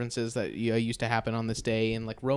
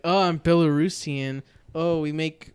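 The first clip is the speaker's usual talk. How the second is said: a touch louder, mock-proud girl; mocking a cooking contestant; 2 semitones higher, 6 dB louder than usual. Host mimicking a MasterChef Junior girl, lightly mocking. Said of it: "That fucking girl, and she's like".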